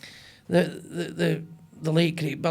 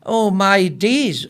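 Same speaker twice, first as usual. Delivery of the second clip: hammed-up Manchester drawl on the catchphrase; Manc accent; 3 dB louder, much slower than usual. Echoing the footballer's catchphrase for the hosts in a mock Manchester accent. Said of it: "who's got a Coronation Street accent".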